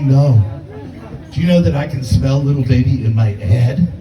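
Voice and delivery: mock deadpan refusal to proud father. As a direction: push back low and unimpressed. Arguing with friend about photos.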